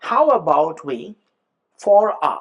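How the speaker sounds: "how about we ... for a" in isolation, content words left out; grammar words only. Shown as a demonstration. Teacher showing grammar words mean nothing alone, isolated words. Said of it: "এই ওয়ার্ডগুলো যদি বলি".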